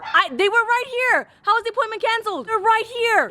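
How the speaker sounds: high, indignant wail; distraught protest. Real, not acted. Customer whose delivery cancelled at the gate, distraught protest.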